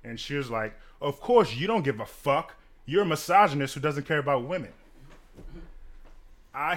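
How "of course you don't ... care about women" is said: louder, indignant mock accusation; retold accusation. Drunk woman accusing the bartender, retold indignantly. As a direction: throw the blame hard, as retold.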